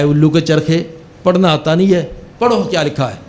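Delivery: mildly exasperated telling-off; retold angry scolding. Officer scolds guard who misread his note, mildly angry. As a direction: imitate an irritated boss, firm but not shouting. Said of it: "بڑے غصے سے کہنے لگا".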